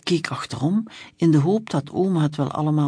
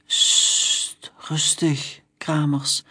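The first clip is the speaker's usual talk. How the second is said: hushing; much slower than usual. Acted. Policeman hushing his angry colleague, whispered. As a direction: hush your colleague gently. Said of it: "suste de andere rijkswachter".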